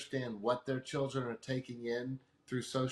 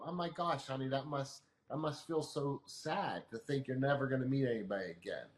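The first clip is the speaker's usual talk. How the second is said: validating parent. Shown as a demonstration. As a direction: gently comfort a heartbroken teen. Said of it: "validate them".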